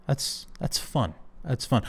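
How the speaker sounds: whispered delight. Real, not acted. Delighted by new nickname.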